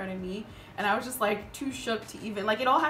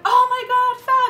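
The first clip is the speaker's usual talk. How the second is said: very loud, high fan shriek; re-enacted shriek of recognition; imitating screaming fans; 17 dB louder than usual. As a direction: scream like a star-struck crowd. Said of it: "everyone starts screaming".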